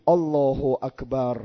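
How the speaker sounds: slow, measured Allahu akbar in careful Arabic; correct takbir. Shown as a demonstration. Teacher showing the congregation the correct opening takbir, slow and dignified. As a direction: draw out الله اکبر with dignity and clear Arabic sounds. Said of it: "سعی کنید این تکبیرة الاحرام را صحیح".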